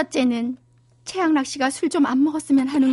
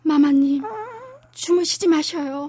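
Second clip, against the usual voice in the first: crying out; 7 semitones higher than usual. Acted. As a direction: wail her name through tears. Crying over dead mentor.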